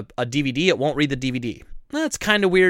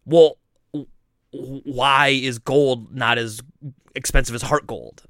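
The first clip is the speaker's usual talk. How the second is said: deadpan; slower than usual. Retold or imitated. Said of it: "deadpan looks at me and just goes".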